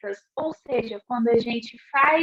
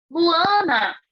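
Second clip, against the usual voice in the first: chama Luana com força e emoção; chamado emocionado; 5 semitones higher, 4 dB louder than usual. Shown as a demonstration. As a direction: grite o nome como marido emocionado. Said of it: "o esposo gritou emocionado". (chamado emocionado em voz alta)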